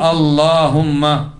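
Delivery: slow, stretched-out اللهم; drawn-out demonstration. Shown as a demonstration. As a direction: draw out each syllable of اللهم for learners. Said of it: "أو تقول".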